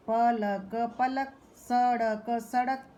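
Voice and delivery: प ल क पलक, letters a little slow, then joined; slow blending. Shown as a demonstration. Teacher sounding out पलक for children. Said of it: "तीन वर्णों के शब्द द्वारा".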